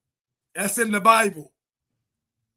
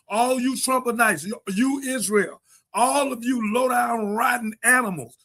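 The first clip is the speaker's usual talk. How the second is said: preaching litany. Real, not acted. Preaching condemnation of racists.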